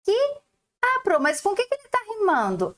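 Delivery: put-on high, quick child asking the teacher; pupil voice. Teacher voicing a small pupil, high and puzzled.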